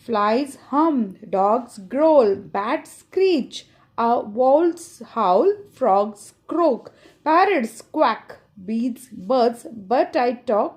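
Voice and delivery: put-on slow, sing-song reading of a children's poem; teacher reading a rhyme aloud to pupils, sing-song; poem recitation. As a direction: recite each line to the class, stretching the words. Reciting English poem lines.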